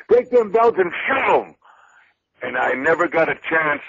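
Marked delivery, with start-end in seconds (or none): 0.1-1.6 blunt retort. Retold or imitated. Partner's blunt retort quoted.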